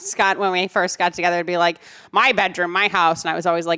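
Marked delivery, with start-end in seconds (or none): none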